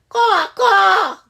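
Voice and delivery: loud high caw; cawing blue jay. Acted. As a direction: caw like a bird. Blue jays calling.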